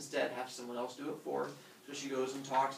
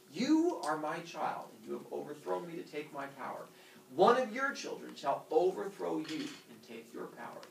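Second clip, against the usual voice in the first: solemn curse. Acted. Uranus pronounces the curse.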